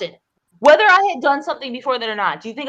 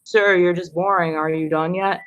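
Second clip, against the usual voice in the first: retold calm put-down; 8 semitones lower, 4 dB quieter than usual. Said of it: "I just become completely calm".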